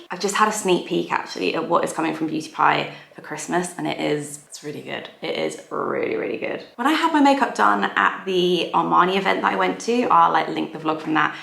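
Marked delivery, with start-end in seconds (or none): 4.5-6.7 hushed, like sharing a secret; secretive whisper. Acted. Hushed whisper teasing viewers about upcoming Christmas products. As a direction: whisper it so nobody else hears.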